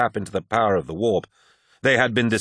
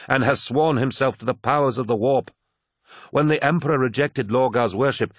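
lightly voiced zealous emissary; Erebus; 3 semitones higher than usual. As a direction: persuade with mounting fervour, pitch rising. Erebus pleads his master's cause.

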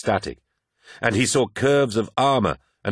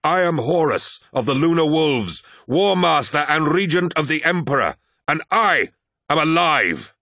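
high, loud, proclaiming his titles; triumphant cry; 8 semitones higher, 4 dB louder than usual. A narrator's reading. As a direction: roar it out as a reborn warlord. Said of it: "he cried out".

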